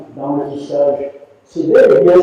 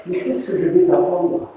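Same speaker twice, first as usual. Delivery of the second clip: mock astonished master, higher; the amazed old master, pitched up; 5 semitones higher than usual. Master surprised by Michel's knots, astonished. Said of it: "il est très étonné".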